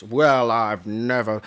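slow, affronted put-on voice; hammed-up shocked lady; offended posh voice. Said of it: "or should I say in a Welsh accent".

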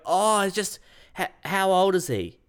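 high, hesitant imitation of a stranger; put-on question asker. Stranger repeating her question to the dog owner, high mock-hesitant.

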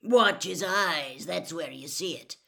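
loud, gruff excited Moody; Moody praising Harry to the class, loud and gruff; booming praise. Acted. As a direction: boom it to the whole class.

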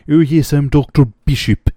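put-on posh English accent, nose in the air; haughty British accent introducing himself; snooty English accent. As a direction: play a snooty English doctor. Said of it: "in a snooty, snooty English accent".

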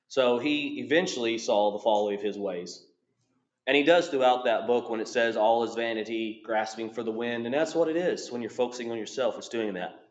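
talking around a mint in mouth. Real, not acted. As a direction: speak with a mint in your mouth. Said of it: "I have a mint in my mouth".

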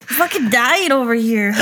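choked voice after coughing; strained from choking on a drink; coughing up water. Real, not acted. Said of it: "She choking on a sip of fucking something".

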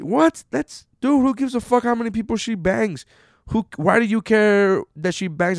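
a high, loud "what?" of disbelief; can't believe anyone thinks this; incredulous outburst. Real, not acted. Incredulous at slut-shaming mentality.

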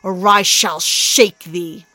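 a warrior threatening; rough threat. Acted. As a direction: menace him slowly. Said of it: "said Thor roughly".

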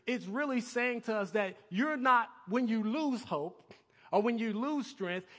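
ordinary delivery

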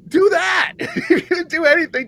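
high, loud exclamation; emphatic urging. Acted. Host urging the coach to copy Belichick, emphatic.

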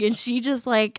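ordinary delivery

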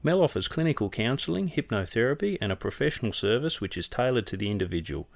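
smooth radio ad voice; ad read. Acted. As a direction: read it like a sponsor spot. Reads a sponsor ad.

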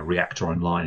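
lightly voiced cockpit computer; a hint of a calm machine announcement; robot voice. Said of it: "the little robot voice saying".

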